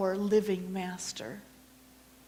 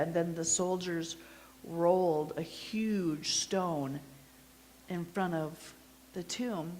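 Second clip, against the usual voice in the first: intimate first-person storytelling as a grieving disciple; Mary's witness monologue; 2 semitones higher, 4 dB louder than usual. Acted. Mary telling the congregation her story, earnest storytelling. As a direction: tell it as Mary, remembering Easter morning.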